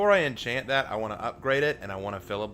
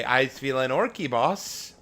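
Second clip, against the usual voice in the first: ork voice; 4 semitones higher, 4 dB louder, slower than usual. Pretend. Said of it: "She might say".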